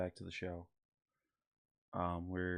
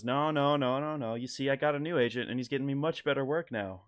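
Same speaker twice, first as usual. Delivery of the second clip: excited Norm cadence; 4 semitones higher, 4 dB louder than usual. Retold or imitated. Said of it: "talking like he's so excited to be telling you this story".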